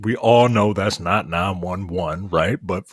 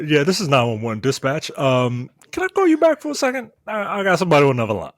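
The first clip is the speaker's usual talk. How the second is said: mock 911 dispatcher, higher, speeding up to a rush; 4 semitones higher, much faster than usual. Dispatcher brushing off the caller, rushed and higher. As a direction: play the dispatcher hurrying off the line.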